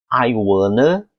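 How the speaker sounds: "wanna" run together as "wuh-nuh"; reduced "want to". Shown as a demonstration. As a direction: say "I wanna" with no t at all. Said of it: "já teve mudança fonética".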